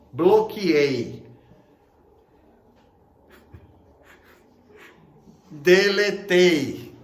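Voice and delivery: loud, very slow mock declaration; smug blocker. Preacher mimics angry person cutting friends off, loud and slow. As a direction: drag out each word proudly.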